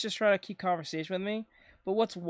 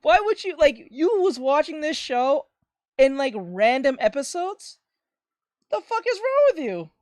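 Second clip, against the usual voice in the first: much higher, louder, mock-furious rant; furious yell at dad; 7 semitones higher, 7 dB louder than usual. Yelling at his dad for watching episodes out of order, mock-furious. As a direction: blow up at him like you can't believe it. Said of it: "I was like".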